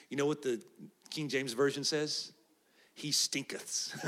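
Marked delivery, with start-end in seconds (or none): 2.9-3.9 deadpan whisper. Acted. Reading King James wording for comedy.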